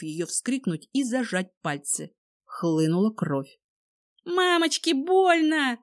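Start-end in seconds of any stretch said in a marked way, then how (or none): 4.2-5.8 high, pained sobbing cry; whimpering in pain. A narrator's reading. Vika cries out after the bullet hits her syringe hand. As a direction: shot in the hand, she whimpers. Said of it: "всхлипнула Кожухова".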